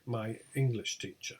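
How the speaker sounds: ENGLISH stressed, teacher dropping away. Shown as a demonstration. Teacher giving compound example, stress on ENGLISH. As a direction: lean on English and let teacher fall. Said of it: "stressed on the first element".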